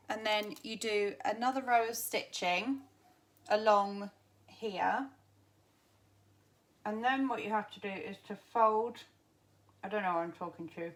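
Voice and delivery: talking round pins in mouth; mumbling with pins between lips; mouth full of pins. Real, not acted. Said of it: "with pins in my mouth".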